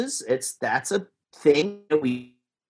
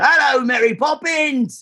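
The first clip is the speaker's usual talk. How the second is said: Dick Van Dyke cockney; 12 semitones higher than usual. Retold or imitated. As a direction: belt it out as a hammed-up cockney accent. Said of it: "Everybody does Dick Van Dyke".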